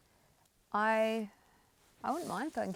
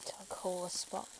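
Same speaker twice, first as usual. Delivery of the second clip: whispered; 3 dB quieter than usual. Real, not acted. Moving burgers on the grill.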